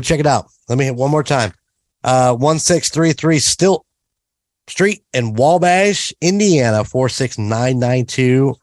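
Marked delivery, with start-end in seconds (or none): 2.0-8.5 slow, measured announcer read; announcer sign-off. Pretend. Host giving the restaurant's address and seal of approval, slow announcer delivery. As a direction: spell out the address, then stamp it like a promo.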